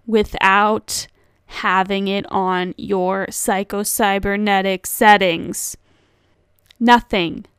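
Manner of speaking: loud, emphatic urgency; urgent emphasis. Shown as a demonstration. Podcaster making clear to listeners that this is important, urgent and emphatic. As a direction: drive it home loudly, with punchy stresses. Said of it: "put some urgency into this".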